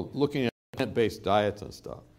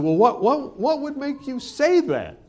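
high-pitched, stammering disbelief; acted-out baffled protest; incredulous; 12 semitones higher, 5 dB louder than usual. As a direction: repeat the first word, then stretch it out high and loud. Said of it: "Kind of incredulous".

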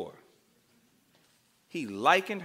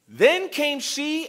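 slow drawn-out reading; 8 semitones higher, much slower than usual. A narrator's reading. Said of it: "dramatic scripture reading".

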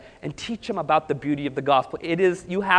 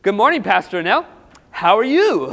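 put-on a light Indian accent on the greeting; 2 semitones higher, 5 dB louder than usual. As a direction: read the email in a mild Indian accent. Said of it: "I wanna do the accent".

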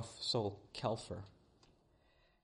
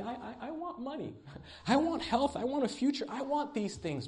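laughing mock prayer; 13 semitones higher, 5 dB louder than usual. Acting out a greedy prayer.

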